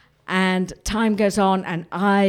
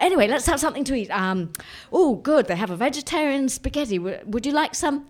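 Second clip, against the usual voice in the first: Graham; 6 semitones higher, faster than usual. Retold or imitated. Graham brightly offers food.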